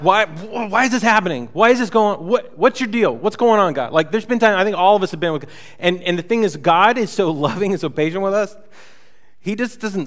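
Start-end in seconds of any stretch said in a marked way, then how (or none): 0.0-3.9 higher, louder half-joking why; exasperated questions thrown at God; mock exasperation with God. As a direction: complain to God in a lightly acted huff. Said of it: "times I've been ticked off with God".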